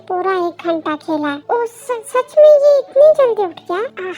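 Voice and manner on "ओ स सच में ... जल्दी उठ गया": high, loud amazed question; acted big surprise, voice leaping up; astonished. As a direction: stammer into loud disbelief. Told baby woke unusually early.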